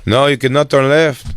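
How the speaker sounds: lightly voiced driver laying down the rule; driver quote. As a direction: imitate the driver flatly refusing the turn. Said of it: "he goes, he goes".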